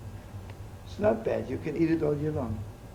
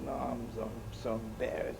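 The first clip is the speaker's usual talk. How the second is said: mock bashful; 4 semitones lower, 9 dB quieter than usual. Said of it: "And talks like that".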